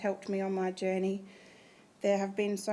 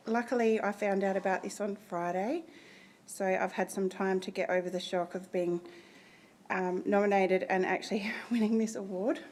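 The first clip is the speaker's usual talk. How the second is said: out of breath. Real, not acted. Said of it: "I get a bit breathless".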